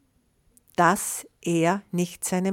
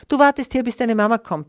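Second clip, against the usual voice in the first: raised, loud order that eases off; commanding; 5 semitones higher, 5 dB louder, faster than usual. A narrator's reading. Bear orders the little one to wait, commanding. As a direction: lay down the order firmly, high and loud at first. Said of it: "befahl er ihm".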